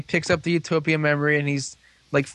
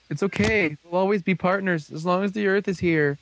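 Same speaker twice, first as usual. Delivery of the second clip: higher-pitched imitated comforting; lightly hammed-up tender farewell; mock reassuring; 5 semitones higher than usual. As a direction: console a partner, playfully acted. Retold comforting farewell to crying partner.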